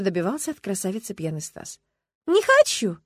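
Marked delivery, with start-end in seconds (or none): 2.3-3.0 high, loud tipsy laughing refusal. A narrator's reading. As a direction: toss it off laughing, a little drunk. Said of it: "смеялась не менее пьяная Лариса".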